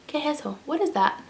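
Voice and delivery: mock baffled question.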